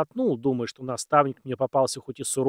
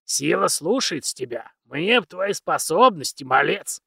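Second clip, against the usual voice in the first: put-on very old man; 4 semitones higher, 4 dB louder than usual. Old mentor praises.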